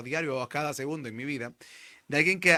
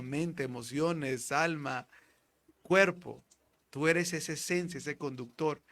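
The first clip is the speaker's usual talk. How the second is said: reassuring friend. Retold or imitated. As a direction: talk him back to himself calmly. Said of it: "Y le dice el otro".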